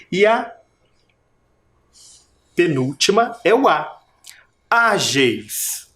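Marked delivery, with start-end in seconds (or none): 4.7-5.9 Ágeis with long Á, falling on geis; stress on first syllable. Shown as a demonstration. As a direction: lean on the Á of Ágeis. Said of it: "Qual é a sílaba tônica?". (Ágeis com Á tônico alongado)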